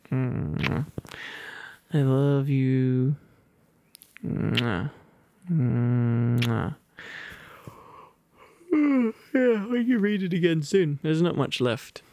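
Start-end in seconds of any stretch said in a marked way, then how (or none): none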